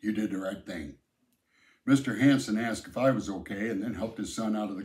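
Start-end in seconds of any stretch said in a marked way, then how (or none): 0.0-1.0 a touch softer, settled and reassuring; steady him with quiet approval; calmly. Acted. The dad reassuring Sam, mildly calm. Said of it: "said calmly".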